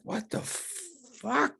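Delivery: high, drawn-out mock disbelief; retold exasperation. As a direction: stretch it slowly into a high whine of protest.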